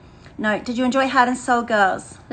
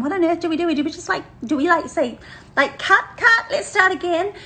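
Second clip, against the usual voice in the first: mock panic; 6 semitones higher than usual. Team panicking over tangled microphone.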